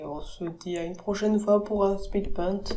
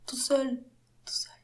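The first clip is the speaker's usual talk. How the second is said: whispering; 5 semitones higher, 6 dB quieter than usual. Shown as a demonstration. Whispered echo of "tout seul.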